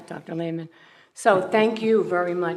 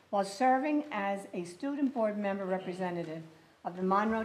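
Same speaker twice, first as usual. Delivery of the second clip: formal plaque reading; 6 dB quieter than usual. Acted. Reads plaque inscription aloud.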